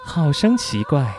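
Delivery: slow, lightly voiced delicate young lady; Lin Daiyu. Shown as a demonstration. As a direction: drawl it out like a fragile classical heroine. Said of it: "我只能模仿个语气哈".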